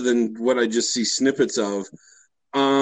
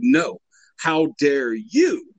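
slow mocking comeback; much slower than usual. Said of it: "Mike Pence ... came out and said".

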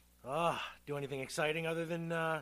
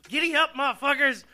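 hollering cowboy, drawn out; 6 semitones higher, 11 dB louder than usual. Acted. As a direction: whoop it up like a rodeo cowboy. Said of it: "Cowboy Mo".

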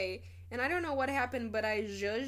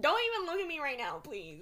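laughing plea; 4 semitones higher than usual. Retold or imitated.

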